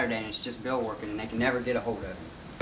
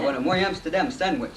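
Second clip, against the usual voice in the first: lightly put-on Jewish accent, slightly higher; 4 semitones higher than usual. Demonstrating how they teased Bill, mock Jewish accent. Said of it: "going to this Jewish accent".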